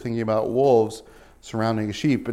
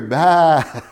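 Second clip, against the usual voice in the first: mock bleat; 2 semitones higher, 7 dB louder than usual. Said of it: "You hear".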